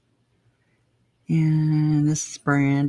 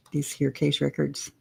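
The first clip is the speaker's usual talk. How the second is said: whispering; 7 dB quieter than usual. Real, not acted. Reading to herself.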